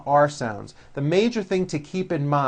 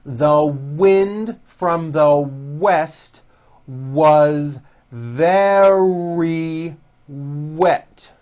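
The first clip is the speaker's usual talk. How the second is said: The wind from the west was very wet, drawn out slowly; slow it down for learners to copy; very slow practice sentence; very slow drill; 5 dB louder, much slower than usual. Shown as a demonstration. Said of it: "practice these W sentences".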